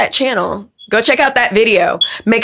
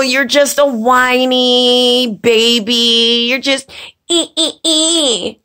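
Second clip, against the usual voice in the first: mock whiny baby; 2 semitones higher, slower than usual. Mocking critic as whiny baby.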